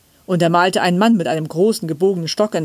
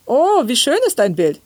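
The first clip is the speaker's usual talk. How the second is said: high-pitched delighted mother; raised, swooping voice of praise; admiring exclamation; 7 semitones higher, 4 dB louder than usual. A narrator's reading. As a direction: exclaim in admiration at a child's picture. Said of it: "rief die Mutter".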